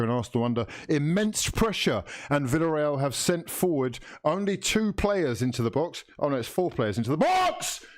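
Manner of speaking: TV match commentator voice; live commentary. Acted. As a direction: call the match like a broadcaster. Mock play-by-play commentary.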